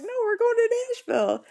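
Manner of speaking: very high-pitched retold protest; upset protest. Patient insisting on the wedding trip, high upset protest. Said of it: "because we were really upset".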